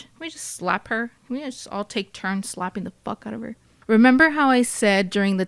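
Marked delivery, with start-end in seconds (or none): 0.0-3.6 soft, fed-up aside; muttered exasperation. Real, not acted. Narrator breaking off to comment on Erin, exasperated aside. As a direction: drop your volume for a disgusted side comment.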